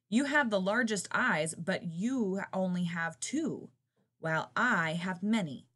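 loud buzzing taunt; buzzing housefly. Acted. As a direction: buzz it into his ear. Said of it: "the housefly buzzed".

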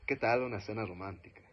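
low, soft romantic invitation. Shown as a demonstration. Speaker demos a romantic tone to the class, low and soft. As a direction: charm her into dinner. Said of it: "puedo sonar romántico".

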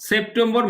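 "সেপ্টেম্বর" as sep-tem-bor, R sounded; Bengali pronunciation. Shown as a demonstration. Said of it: "আমরা এখন বাংলায় বলতেছি তাই সেপ্টেম্বর বলবো".

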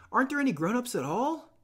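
a hint of a nervous child pleading; lightly voiced anxious boy. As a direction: play the fat boy fretting about the other kids. Piggy asks, anxious.

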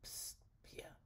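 hushed, breathless whisper through the window. Acted. Friend outside the kitchen window secretly calling Pia, whispering. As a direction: call her softly so no one hears. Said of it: "came a low voice".

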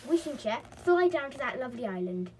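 high, loud, stubborn demand; obstinate. A narrator's reading. Molly orders the Wishing Chair down, obstinately. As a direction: insist like a headstrong child in a story. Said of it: "said Molly obstinately".

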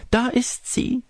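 put-on very high, joyful old lady; delighted cry. A narrator's reading. Old lady hearing her granddaughter arrive, delighted cry. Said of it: "rief die alte Dame erfreut".

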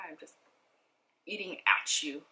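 talking while chewing; words round a bite of food; mouth full. Real, not acted. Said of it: "talk with your mouth full".

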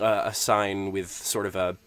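normal talking voice

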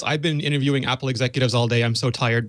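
low, fast mocking of a tired reporter; teasing impression of an exhausted colleague; mock tired whine. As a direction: parrot her excuse in a sleepy voice. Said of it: "Christina's bit".

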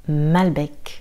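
"Malbec" with a clear final k; sounded C. Shown as a demonstration. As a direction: finish "Malbec" on a crisp k. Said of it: "il faut entendre le C".

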